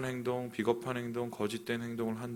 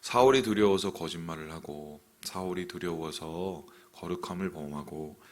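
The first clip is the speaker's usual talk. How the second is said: usual speaking voice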